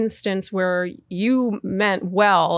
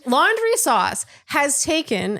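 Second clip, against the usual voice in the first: slow, grand Laundry sauce; grand product name; 6 semitones higher, much slower than usual. Acted. Host hamming up the brand name, slow and grand. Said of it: "is it not perfectly named".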